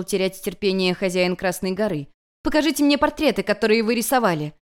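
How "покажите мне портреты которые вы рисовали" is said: fast, higher insistent demand; student demanding from her master. Acted. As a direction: order him to show them. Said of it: "потребовала Юнь-Юнь".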